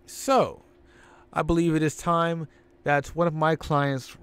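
lightly voiced smug manager; a hint of the smug Million Dollar Man; Ted DiBiase promo. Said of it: "DiBiase says".

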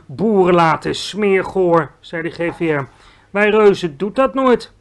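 disgusted giant. Acted. Giant describing a burp, disgusted. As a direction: savour the nastiness.

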